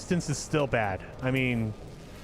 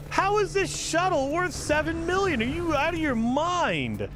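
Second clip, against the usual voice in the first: outraged disbelief; 9 semitones higher than usual. Real, not acted. Haggling over shuttle price.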